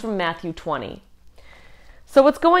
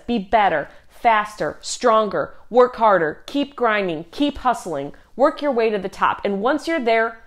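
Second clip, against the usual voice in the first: culture's push; 3 semitones higher than usual. Retold or imitated. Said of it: "a culture that says".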